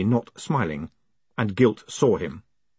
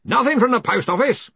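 high, hearty question; Ridcully; 13 semitones higher, 3 dB louder than usual. Acted. Arch-Chancellor asking about the post office, hearty. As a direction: call out a pointed query. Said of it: "said Ridcully".

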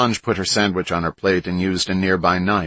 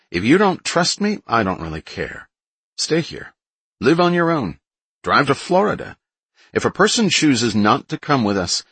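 much higher, louder blunt leader; blunt defiant man; 4 semitones higher, 4 dB louder than usual. Acted. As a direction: lay it out bluntly, fired up. John bluntly laying out terms.

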